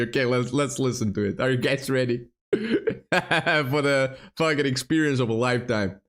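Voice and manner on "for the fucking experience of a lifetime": laughing. Real, not acted. Hyping the audience, laughing.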